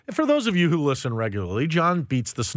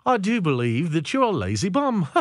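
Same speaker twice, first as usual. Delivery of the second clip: mock British accent; 2 semitones higher than usual. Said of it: "I could be like".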